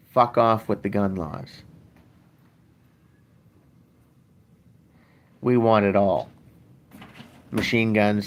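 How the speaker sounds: hammed-up defiance, telling the rules where to go; defiant gun-owner attitude. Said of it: "That would be the attitude of".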